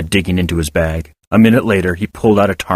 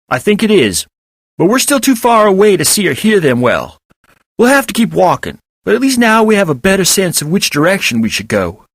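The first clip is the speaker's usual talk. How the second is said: chipmunk voice; 10 semitones higher than usual. A narrator's reading. Elgar the chipmunk voice.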